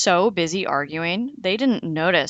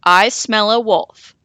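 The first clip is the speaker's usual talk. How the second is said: 1 monster voice; 3 semitones higher, 8 dB louder than usual. Retold or imitated. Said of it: "He used to wander around saying".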